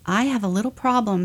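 the bear starts to explain; gentle bear voice. Acted. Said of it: "said the bear".

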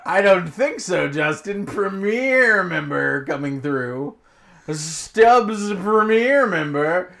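slow, drawn-out snooty club member voice; evil premiere member. Pretend. To Justin in the line, a slow smug VIP voice. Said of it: "make him evil because he's a Stubbs Premiere member".

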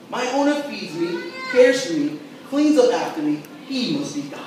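eager, grateful dog; dog's point of view. Retold or imitated. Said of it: "A dog goes".

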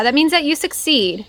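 ordinary talk

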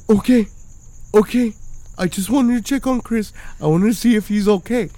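put-on a pleading drunk, backing away; mock drunk neighbour. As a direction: play the drunk friend giving in. Drunk neighbour pushed out door.

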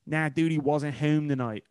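slow, mocking Philly-area accent; overdone Philly accent. Co-host mocking the actress's accent on the show, overdone Philly. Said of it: "When you overdo the ohms".

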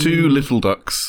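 slow sing-song bingo rhyme; bingo caller. Pretend.

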